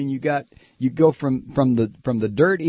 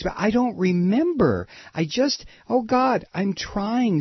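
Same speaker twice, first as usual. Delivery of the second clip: lightly voiced, higher, helpless witness playing dumb; mock flustered witness; 5 semitones higher than usual. Radio host mocking the witness at the hearing, lightly voiced higher whine. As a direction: play the cornered official who can't remember anything.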